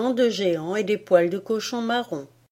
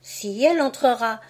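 higher put-on arguing voice; second voice in the skit; 5 semitones higher than usual. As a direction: play the other side of the quarrel, higher. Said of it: "interpréta à haute voix une scénette énergique".

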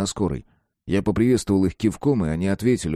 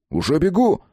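calling back; 8 semitones higher, 3 dB louder than usual. Acted. Friend calls back.

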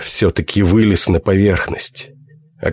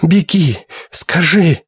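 dying whisper; 8 semitones higher, slower than usual. A narrator's reading. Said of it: "прошептала она".

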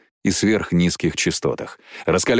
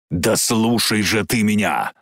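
slow, insistent demand at usual pitch; contained, drawn-out insistence; restrained plea. Acted. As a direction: press him to listen without crying out. First take of Jane's plea.

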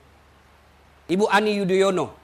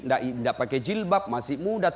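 usual speaking voice

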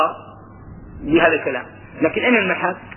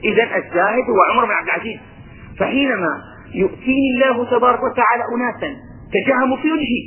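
ordinary delivery

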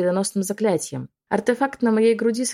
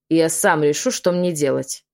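sharp reply; slower than usual. Acted. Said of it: "резко ответил Майкл".

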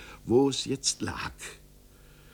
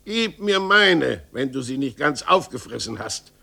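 shout; 5 dB louder than usual. Acted. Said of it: "schrie der Tischler".

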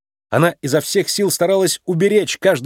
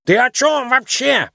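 high, slow exasperated yell; frantic shopkeeper shouting; pig shouting; 11 semitones higher, slower than usual. A narrator's reading. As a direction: bellow it in disbelief. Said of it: "прокричал он".

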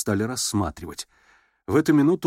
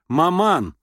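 higher, louder warning cry; meaningful exclamation; 7 semitones higher, 5 dB louder than usual. A narrator's reading. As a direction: caution her mother. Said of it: "значительно воскликнула Александра".

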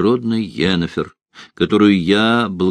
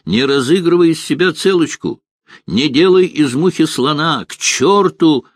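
shout; 9 semitones higher than usual. A narrator's reading. Bogold shouting at Geralt.

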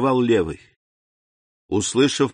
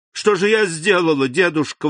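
exclaiming; 7 semitones higher than usual. A narrator's reading. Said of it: "воскликнула Валентина".

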